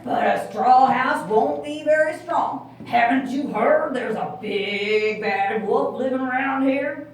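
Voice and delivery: farmer. Acted. Farmer warns pig about the wolf. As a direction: warn him kindly. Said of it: "replied the farmer".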